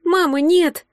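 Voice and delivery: anguished moan. A narrator's reading. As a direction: wail no in delirium. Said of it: "снова застонал Саша".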